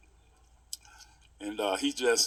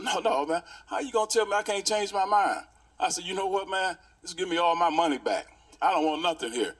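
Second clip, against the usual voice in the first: higher, heated complaint; upset; 5 semitones higher than usual. Retold or imitated. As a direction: demand the money back, worked up. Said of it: "now I'm upset now".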